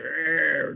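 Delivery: grumbling "arr" noise of a decrepit man; old man's growl. Retold or imitated. Piercer mimicking a client's old husband, growling. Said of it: "just had this old Brooklyn accent".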